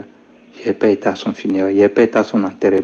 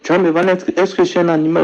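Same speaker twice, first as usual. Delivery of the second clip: retold panic, pitched higher; alarmed plea, voice climbing high; panicking; 8 semitones higher than usual. Son in the dream pleads with his mother, panicked and higher. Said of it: "J'ai commencé à m'affoler".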